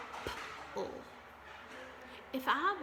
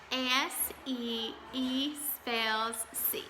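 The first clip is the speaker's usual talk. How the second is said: slow spelling together; slower than usual. Shown as a demonstration. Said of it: "your regular voice and let's do it together".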